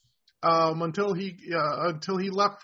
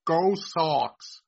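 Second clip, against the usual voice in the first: tentative try at a Boston accent; unsure Boston-accented cheer; 3 semitones lower than usual. Shown as a demonstration. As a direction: attempt a Beantown accent, lower this time. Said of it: "could I pass for".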